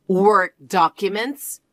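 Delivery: slow mocking repeat, rising at the end; scoffing echo. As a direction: drag it out as if it's a joke. Mother-in-law scoffs at the claim.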